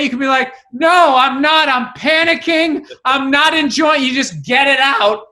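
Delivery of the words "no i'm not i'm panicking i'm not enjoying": raised, emphatic mock protest; woman admitting panic. Woman answering "you okay" honestly, mock-panicked protest. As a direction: blurt it out openly, higher and insistent.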